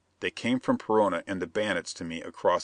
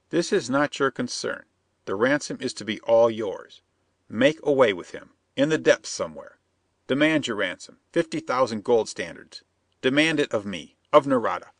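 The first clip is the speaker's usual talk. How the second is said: higher, insistent foreign plotter; scheming Perona; 4 semitones higher, 3 dB louder than usual. Acted. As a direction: press the bandit, sly and eager.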